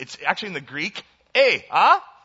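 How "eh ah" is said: very loud, high, put-on Canadian accent, "eh". Joking about a demon's cry in the greek text: canadian accent. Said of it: "So he's a Canadian demon".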